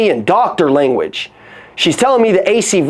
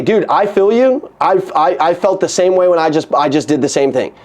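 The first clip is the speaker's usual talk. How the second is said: empathetic demo. Shown as a demonstration. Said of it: "I would say".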